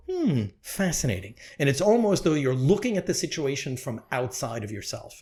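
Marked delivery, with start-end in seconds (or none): 0.1-1.3 softer detached hum; a hint of cool fascination; Spock-like calm. Shown as a demonstration. Showing how to answer negativity, lightly calm and soft. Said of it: "Just go".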